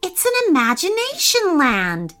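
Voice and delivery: high, wonder-struck exclamation; amazed cry. Acted. Thaddeus discovers imagination land, crying out amazed. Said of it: "Thaddeus cried".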